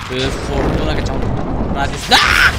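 loud shout, then a sharp cry. Real, not acted. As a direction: shout it mid-fight. Shouting under attack.

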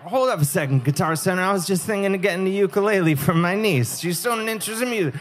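timid customer. Retold or imitated. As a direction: back away politely from the threat. Nervous customer answering the ad.

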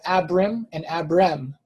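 two forms of Abram, AB-rum then ab-REM; slight sound contrast. Shown as a demonstration. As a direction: say Abram twice, second vowel fuller the second time. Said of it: "one letter difference changes the sound slightly".

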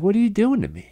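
high, hurt Southern country voice; Southern accent. Retold or imitated. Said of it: "like this Southern Midwest guy".

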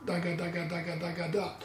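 da ga spoken in even pairs; quick soft da ga pairs; double tongue syllables. Shown as a demonstration. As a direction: alternate da ga, da ga steadily. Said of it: "for double tonguing".

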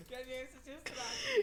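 high, loud pleading voice; falsetto plea. Acted. Pleading lover.

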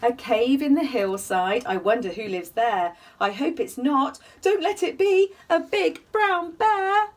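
gentle sing-song bedtime reading; cosy read-aloud storytelling; story narration. A narrator's reading. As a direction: read it like a rhyming picture book for little ones. Reading rhyme, building suspense.

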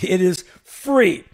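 "free" drawn out and punched loud; slow down and hit "free" hard; stress on free. Acted. Host highlighting the free offer, "free" stretched out loud. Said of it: "stop for a moment and highlight that".

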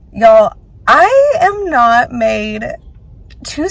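scratchy tired voice; hoarse voice. Real, not acted. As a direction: sound a little hoarse and worn. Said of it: "God, I sound weird".

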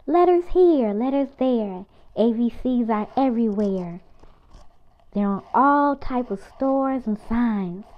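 lively picture-book read-aloud; reading to children. Acted. Reading a picture book aloud to kids, lively and bouncy. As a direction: read it out brightly for little kids.

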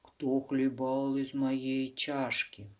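slow, drawn-out growl of a big bear; scary bear roar. Acted. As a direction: drag each word like a grumpy papa bear. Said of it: "заревел страшным голосом".

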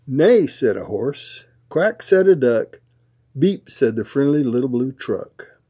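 lively storybook narration with punched words; picture-book read-aloud. A narrator's reading. Papa reads a truck book to his grandsons, animated storytelling. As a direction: read it playfully to small children.

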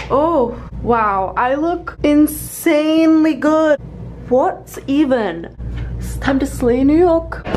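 excited. Real, not acted. Admiring her outfit in mirror.

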